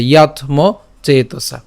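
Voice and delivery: "ইয়াত ম চেতসা" piece by piece; pronunciation demo. Shown as a demonstration. Teacher pieces together "ইয়াত ম চেতসা", separated chunks. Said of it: "তাহলে ইয়াত".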